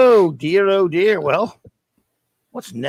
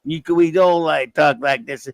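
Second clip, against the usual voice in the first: mock Cajun accent. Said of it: "in a Cajun accent".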